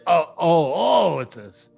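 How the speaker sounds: high, eager wolf voices; excited wolves. Acted. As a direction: wolves wishing they could talk all the time. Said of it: "And they go".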